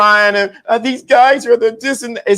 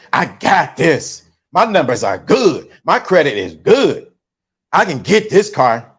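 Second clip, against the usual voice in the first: cocky insistence; 5 semitones lower than usual. Acted. Buyer smugly tells the salesman her credit is good. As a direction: drop it low and smug, you've got this.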